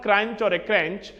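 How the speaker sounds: CRUNCH as "cranch", then as "crench"; wrong pronunciations. Shown as a demonstration. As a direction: contrast two mistaken forms, "cranch" and "crench". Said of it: "it's not crunch or a crunch".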